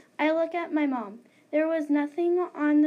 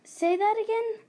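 surprised; 8 semitones higher, 3 dB louder than usual. Acted. Girl can't understand ghost.

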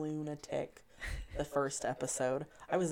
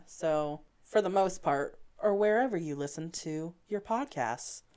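polite helpline sign-off; chirpy phone-agent read; customer service voice; 3 semitones higher, 4 dB louder than usual. Acted. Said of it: "I love how you just switched to your customer service voice".

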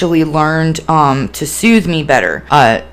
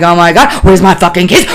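louder, mounting frantic exasperation; retold manic anger; 5 dB louder than usual. Re-enacting the hunt for lost keys, mounting anger. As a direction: re-enact anger building to the brink. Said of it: "like, anger, manic, just".

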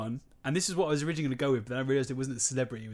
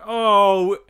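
loud, higher-pitched exclamation of feigned surprise; mock delight; 5 semitones higher, 13 dB louder than usual. Parent pretending surprise at sitting next to Emily, mock delight. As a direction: act thrilled at a stroke of luck.

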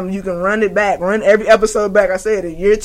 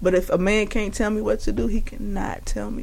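quoting a singer; 7 dB quieter than usual. Retold or imitated. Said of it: "That's exactly how she said it".

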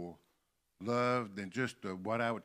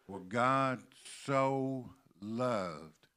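"so" set off by a pause and drawn out; stress on SO; much slower than usual. Shown as a demonstration. Preacher explaining what the word means, stress on SO. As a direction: pause before "so", then stretch it. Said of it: "That's what that word so means".

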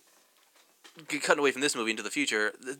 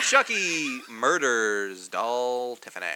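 slow, strange put-on voice; 2 semitones lower, much slower than usual. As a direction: drag it out in an odd voice. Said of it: "working out a voice here".

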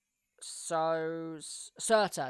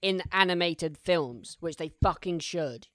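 passionate; 6 dB louder than usual. Real, not acted. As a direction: drive the point home with feeling. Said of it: "I'm so passionate".

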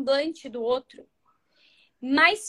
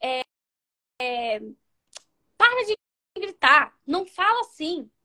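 mock bossy scolding; 3 dB louder than usual. Shown as a demonstration. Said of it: "em nenhum momento diga assim".

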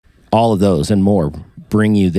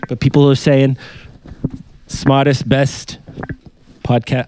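Trump impression; 3 semitones higher than usual. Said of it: "I can't do Trump".

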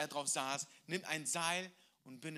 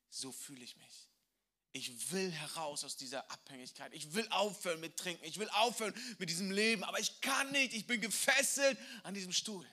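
desperate confession; 3 semitones higher than usual. Acted. Drunk father tells the missionary he is trapped, rising to despair.

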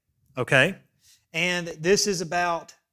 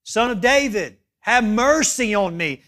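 raised, insistent plea; higher, louder retold cry, held to the end; 4 semitones higher, 5 dB louder than usual. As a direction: act out a beggar calling more forcefully. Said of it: "he cries out even louder".

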